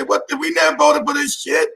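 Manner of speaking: mock outrage. People outraged, retold.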